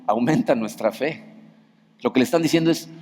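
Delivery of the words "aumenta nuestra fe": slow, lower, rising plea; hushed, slow group request; slow chorus plea. Retold or imitated. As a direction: draw out "Aumenta nuestra fe" slowly with a rising end. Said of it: "y a coro le dicen".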